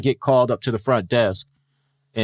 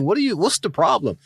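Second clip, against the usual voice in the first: retold puzzled question; 10 semitones higher than usual. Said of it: "I'm like".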